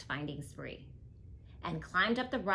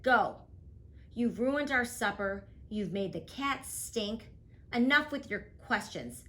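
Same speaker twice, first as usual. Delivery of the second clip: louder, stern scolding; angry father; 4 semitones higher, 4 dB louder than usual. Acted. Father sending Ada to the chair after the stink, stern and loud. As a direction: send her off, firm and cross. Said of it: "Her father said".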